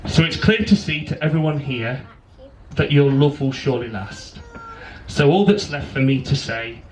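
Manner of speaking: measured rhyming wedding poem; poem recital. Real, not acted. Best man reads his poem to bride and groom, poem recital. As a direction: recite it line by line with pauses.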